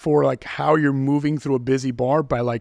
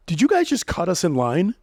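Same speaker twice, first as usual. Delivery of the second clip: mock rage; 3 semitones higher than usual. Shown as a demonstration. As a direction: fake indignant complaint. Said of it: "Okay, so mock rage".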